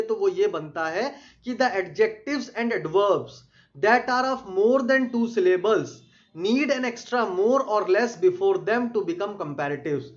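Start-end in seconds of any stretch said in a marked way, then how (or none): 1.5-10.0 slow, deliberate reading of a definition; slow dictation. Shown as a demonstration. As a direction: read it out word by word for students to copy. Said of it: "teacher dictates definition slowly".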